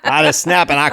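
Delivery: laughing, keeping the mock accent; laughing through it. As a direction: giggle as you repeat it. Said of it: "terrible Southern accent".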